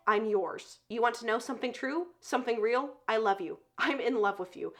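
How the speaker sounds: soft, understated declaration of love; tender confession. Retold or imitated. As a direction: confess it quietly, acting out sincere devotion. Hero's love declaration, retold.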